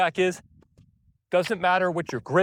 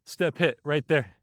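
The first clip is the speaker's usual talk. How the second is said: rhythm demo; slower than usual. Shown as a demonstration. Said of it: "My rhythm is the same".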